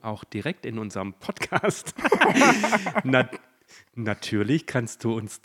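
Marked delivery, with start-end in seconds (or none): 2.0-3.0 short loud high laugh. Real, not acted. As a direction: burst out laughing. Laughs at own slip.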